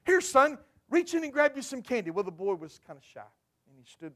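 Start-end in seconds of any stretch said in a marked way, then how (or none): 0.1-2.1 eager mother. Retold or imitated. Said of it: "he asked Mom".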